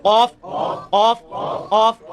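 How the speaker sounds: ऑफ as a deep back-of-tongue q; deep qaf drill. Shown as a demonstration. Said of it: "तो अभी आप practice करें".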